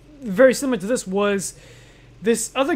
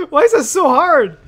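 laugh-crying; 3 semitones higher, 6 dB louder than usual. Real, not acted. Frustrated laugh-cry.

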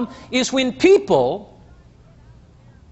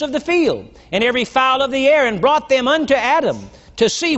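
raised, solemn Bible reading; scripture reading. Acted. Preacher reading Genesis to the congregation, solemn reading voice. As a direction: read the verse like holy writ.

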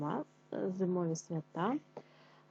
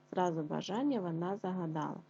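tongue twister repeat. Shown as a demonstration. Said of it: "скоромовочку".

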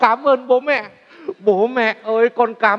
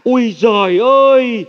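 imitating mum's scolding; 3 dB louder than usual. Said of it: "Mẹ hay mắng con là".

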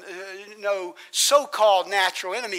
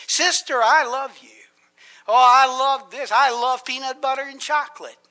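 mock gushing; 3 semitones higher, 6 dB louder than usual. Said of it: "We just say".

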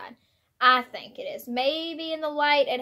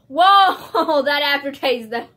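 surprised; 3 semitones higher, 9 dB louder, slower than usual. Real, not acted. Reacting to a strong taste.

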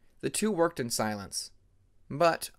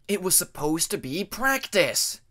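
higher, louder, slow indignant yell; angry protest; 5 semitones higher, 5 dB louder, slower than usual. Acted. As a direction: protest hotly that it was practice. Jaguar quarrel.

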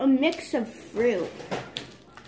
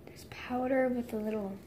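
whispered; 6 dB quieter than usual. Real, not acted. Whispering while examining candy.

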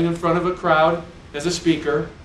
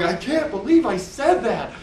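mock dismay at himself; 5 semitones higher than usual. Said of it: "And so I'm going".

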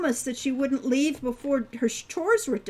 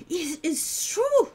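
put-on centaur girl voice; 6 semitones higher, slower than usual. Hilda voiced in story.

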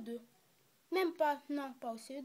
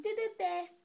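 stern teacher; 6 semitones higher, 5 dB louder than usual. Acted. Teacher silencing pupil.

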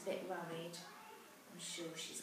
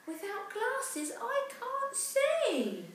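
sniffling; 12 dB louder, much slower than usual. Acted. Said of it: "Cassie sniffed and said".

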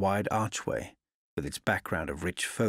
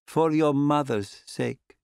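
put-on slow, higher, pleading old woman's voice; old lady's plea; 5 semitones higher, 4 dB louder, slower than usual. A narrator's reading. Old landlady begging the young traveller, slow pleading old voice. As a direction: press it on him gently but urgently. Old lady gives him her rosary.

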